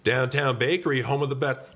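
high, brisk business greeting; baker answering phone. Acted. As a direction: sing out the shop's phone greeting. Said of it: "The baker answered the phone".

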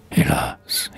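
a broken, whispered sob on the word Hélas; waking to horror, Hélas half sobbed; crying lament. Acted. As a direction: let Hélas crack into tears. Lament on waking after the murders.

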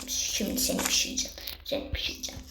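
lightly voiced cook-you villain; mock villain voice. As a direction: threaten the steak like a cartoon villain. Talks to meat as villain.

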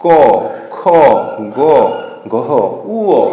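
ক খ গ গহ each said alone from the throat; velar letters demo. Shown as a demonstration. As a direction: separate beats for ক, খ, গ, গহ. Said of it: "এরপরে যদি আমরা আসি".

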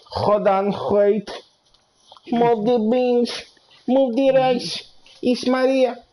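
high, slow hammed-up Spanish-accented woman; mock Spanish accent. Streamer to chat, a high hammed-up Spanish accent. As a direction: squeal it like a caricatured Maria. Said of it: "I know, it's very racist".

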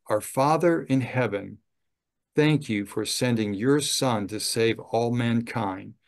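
unhurried, prayerful read aloud; slow prayer reading. Shown as a demonstration. Chaplain reading a prayer aloud to residents, slow and prayerful. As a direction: read the prayer slowly as in the home. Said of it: "I don't want it to be fast".

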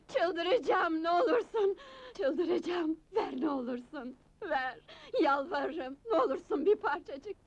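sobbing plea. Acted. Addict sobs, begging for drugs.

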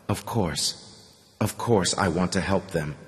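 soft, hushed and timid; frightened whisper. A narrator's reading. Man answering Artyom through tears, in a frightened whisper. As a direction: barely breathe the words out. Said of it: "whispered with a frightened smile".

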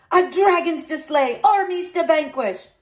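loud, high pompous protest; blustering. A narrator's reading. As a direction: protest grandly. Horace blusters on.

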